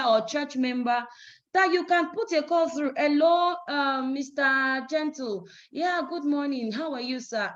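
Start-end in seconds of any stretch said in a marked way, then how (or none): 2.9-7.5 polite, measured hello to a client; calm professional phone manner; businesslike phone greeting. Shown as a demonstration. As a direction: keep it courteous and restrained, like a brief business call. Models the correct appointment call.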